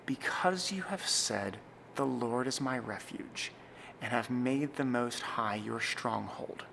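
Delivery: slow, with pauses at the comma and midpoint; solemn worship-service reading; slow liturgical reading. Shown as a demonstration. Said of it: "It might sound more like this".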